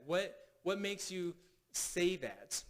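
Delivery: slow question led by a repeated WHAT, falling on THAT; measured, open WHAT question, unhurried to the end; neutral WHAT. Shown as a demonstration. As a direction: take time over WHAT, then ease down to THAT. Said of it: "What's neutral?".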